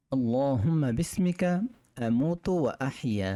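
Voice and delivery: measured Arabic recitation; recited dua. Shown as a demonstration. Teacher recites the sleep dua for students, measured. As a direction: recite the prayer carefully for learners. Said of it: "আমি প্রতিটা দোয়া তিনবার করে বলবো".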